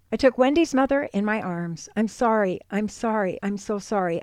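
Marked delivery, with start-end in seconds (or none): 2.0-4.2 soft, repeated muttered apology; subdued apology fading quieter with each repeat. A narrator's reading. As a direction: murmur it over and over, sinking in volume. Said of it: "I muttered over and over".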